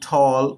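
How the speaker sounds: ঠল with an "aw" vowel, "thawl". Shown as a demonstration. Teacher giving an example of A, ঠল said "thawl". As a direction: sound the A in ঠল as "aw". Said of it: "এর উচ্চারণ স্বরেও হয়".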